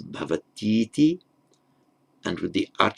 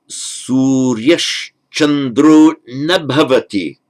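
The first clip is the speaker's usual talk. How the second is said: slow careful reading; 5 semitones higher, 7 dB louder, slower than usual. Shown as a demonstration.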